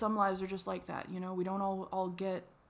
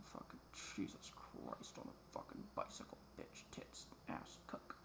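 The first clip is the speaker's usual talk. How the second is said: hushed curses, almost unvoiced and much softer; whispered cursing; 14 dB quieter, slower than usual. Real, not acted. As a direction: spit the curses under the breath.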